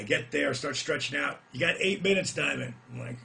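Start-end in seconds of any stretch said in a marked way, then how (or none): 1.5-2.7 louder, higher call to the wrestler. Retold or imitated. Cart driver calling the time to Diamond, louder. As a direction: call the time out over the noise.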